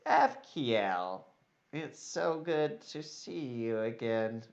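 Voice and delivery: mildly sarcastic, drawn-out politeness; sarcastic greeting. Acted. Weaselly elf greets an old acquaintance, mildly sarcastic. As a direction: greet them with understated false pleasure. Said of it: "You can detect sarcasm on that voice".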